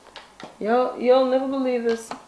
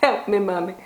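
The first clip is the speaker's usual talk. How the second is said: put-on pleading child; slower than usual. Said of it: "I was".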